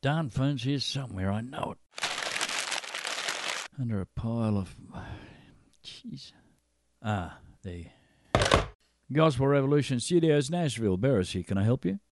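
muttering off-mic, then softly answering a pretend call; mock phone pickup. Host pretends to answer a studio phone, muttering away from the mic. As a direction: play-act hunting for the phone and picking up. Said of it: "I hope I can keep up this pretense that we're actually having a phone call".

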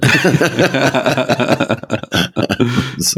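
long chuckle at own joke; laughing. Real, not acted. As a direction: break up laughing after the punchline. Laughs at own joke about a singer.

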